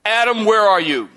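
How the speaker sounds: loud, sharp demanding call; stern angry summons; harsh call. Shown as a demonstration. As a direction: call him out like an accusation. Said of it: "Tone's everything".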